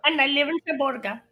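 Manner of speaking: put-on Indian accent, playing a fake diplomat; mock Indian accent. Cohost voicing the fake ambassador in a mock Indian accent. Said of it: "You do it so much better than I do".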